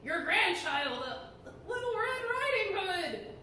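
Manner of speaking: slow, lightly put-on sweet girl voice; a wolf lightly pretending to be the child; slow, mildly sweetened voice; wolf faking a girl's voice. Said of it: "changing his voice".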